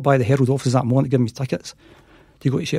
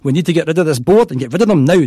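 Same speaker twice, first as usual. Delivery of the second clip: booming voice; 2 semitones higher, 3 dB louder than usual. Retold or imitated. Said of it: "this big booming voice comes on".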